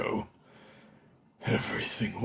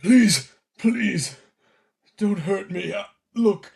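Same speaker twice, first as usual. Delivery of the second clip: higher, louder panicked begging; pleading; 5 semitones higher, 8 dB louder, slower than usual. Acted. Caught thief begging his victims for mercy, pleading. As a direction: beg them not to hurt you.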